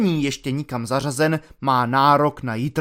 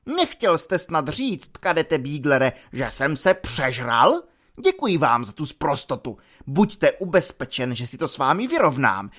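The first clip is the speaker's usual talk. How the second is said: a hint of a huffy superior officer; pompous offended officer. Lieutenant scolds the cadet in the car, lightly voiced and indignant.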